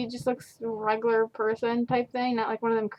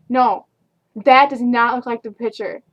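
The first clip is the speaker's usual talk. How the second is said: imitating a louder complaint; 7 dB louder than usual. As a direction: repeat the complaint louder and firmer. Customer repeats the complaint, angrier.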